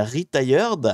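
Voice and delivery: slow, drawn-out English-accented word. Shown as a demonstration. Streamer reading the English category name, self-mocking English accent. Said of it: "avec mon super accent".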